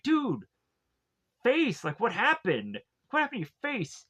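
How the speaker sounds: high-pitched, incredulous questioning; mock shocked reaction. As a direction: imitate friends taken aback. Friends react to his injured face.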